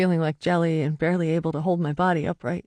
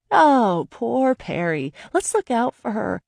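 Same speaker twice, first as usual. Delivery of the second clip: mocking. Mocking his pity.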